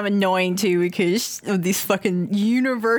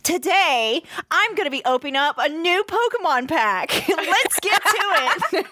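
YouTuber intro voice; 6 semitones higher than usual. Retold or imitated. You just hear a YouTube video start from the other room.

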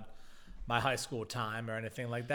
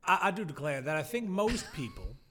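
put-on Southern accent. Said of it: "just say what you're about to say in a Southern accent".

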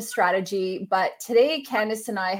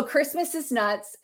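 slow, higher-pitched deliberate quote; letting it sit; 6 semitones higher, slower than usual. Shown as a demonstration. Host repeating guest's line for people to absorb, slow delivery. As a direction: say it slowly so it sinks in. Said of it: "just let that sit with people".

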